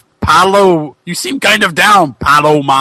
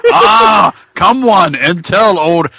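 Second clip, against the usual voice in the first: hammed-up ghost call; slower than usual. Hacksaw's ghost calls out loudly.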